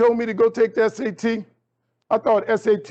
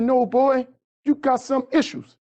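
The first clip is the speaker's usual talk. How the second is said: a hint of a surprised teacher, pitched higher; lightly voiced teacher; 6 semitones higher, slower than usual. Teacher Miss V reacting to Kelvin's score, lightly voiced higher.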